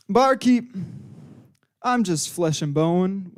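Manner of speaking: drawn-out, mock-solemn miner; odd miner voice. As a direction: play a weary miner with slow, stretched words. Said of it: "why he says it like that".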